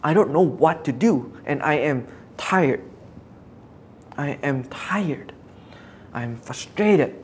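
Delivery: tired frustration. Acted. Preacher as Jeremiah, stuck in a tough situation, tired frustration. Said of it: "He's feeling frustrated".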